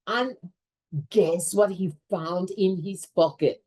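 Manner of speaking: storyteller setting up a cliffhanger for the class; suspense question. Shown as a demonstration. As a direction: lean in with a teasing suspense question. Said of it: "Dramatic pause".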